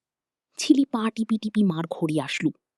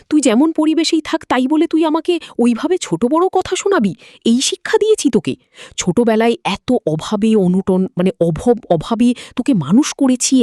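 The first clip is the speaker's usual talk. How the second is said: angry mother scolding; 3 semitones higher, 5 dB louder than usual. Acted. Mother scolding her son who came home late, raised angry voice. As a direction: let the mother's grievance burst out loud.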